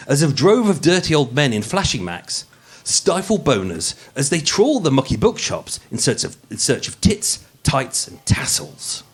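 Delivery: polished, posh narrator read; posh podcast voice. Acted. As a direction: read it like a true-crime podcast host putting on airs. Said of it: "the podcast voice".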